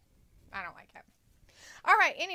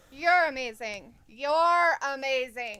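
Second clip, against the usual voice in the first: gushing praise; 12 dB louder, slower than usual. Acted. Gushing to a viewer.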